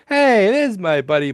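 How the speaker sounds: high, loud mock-delighted hail; hammed-up greeting. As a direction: greet a pal with woozy over-the-top joy, imitating. Imitates drugged Sheldon greeting his friend.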